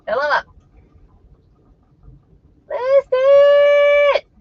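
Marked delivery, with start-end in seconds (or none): 2.7-4.3 high, loud call for attention; sudden shout. Real, not acted. Shouting at the viewers for attention. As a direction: yell it to grab the room. Calling out to the chat.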